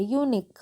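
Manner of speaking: यूनिक starting with a clear "yoo". Shown as a demonstration. Teacher showing U said as यू, "yoo" in यूनिक. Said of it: "इसका उच्चारण यू से हो रहा है".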